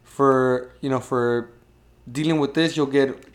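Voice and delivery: loud, slow host announcing points; game show host. Retold or imitated. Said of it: "he'd be like".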